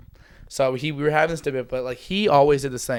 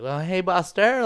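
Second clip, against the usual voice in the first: greeting a dog; 6 semitones higher, slower than usual. Retold or imitated. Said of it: "we're like".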